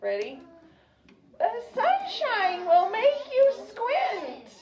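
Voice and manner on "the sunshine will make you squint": put-on very high, shrill elderly granny voice. Modelling a practice sentence for a listener, in an old granny voice. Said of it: "Let's say it like an old granny or an old grandpa".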